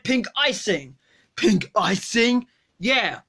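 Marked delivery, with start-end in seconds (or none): 1.4-2.5 put-on sluggish, drunk and lazy; Homer Simpson. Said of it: "Did you eat my donut?".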